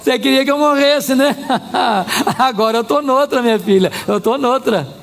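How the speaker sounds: playful gloating with a chuckle; mock taunting. Restored Job to the wife who wished him dead, taunting. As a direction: rub it in, lightly laughing.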